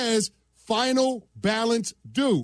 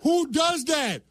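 higher, rising disbelief rant; escalating comedy rant; 3 semitones higher than usual. Real, not acted. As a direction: build the outrage, pitch up. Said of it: "flat out flamethrower".

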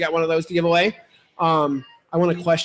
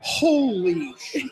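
mock stunned; 3 semitones higher, much slower than usual. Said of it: "he almost cussed".

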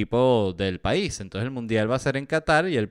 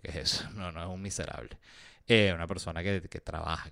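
ordinary talk

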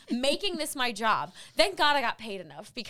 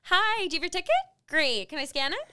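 higher-pitched customer service greeting; check-in greeter; 4 semitones higher, 3 dB louder than usual. Retold or imitated. Volunteer greeting ticket holders for seconds, check-in greeter. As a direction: breeze through a chirpy ticket check.

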